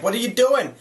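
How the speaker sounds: high alarmed what are you doing; alarmed cry. Retold or imitated. Crew shouting in alarm at the electrician, high alarmed cry.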